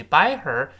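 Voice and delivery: drawn-out "Buy her a nice ring" for learners; teacher's slow demonstration; slow model phrase. Shown as a demonstration. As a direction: read the phrase slowly and clearly. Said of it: "给某人买某个东西".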